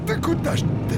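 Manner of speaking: breathy unvoiced call after the dog. Real, not acted. Jud calls after the fleeing dog, in a breathless unvoiced cry. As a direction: shout it hoarsely after a runaway dog.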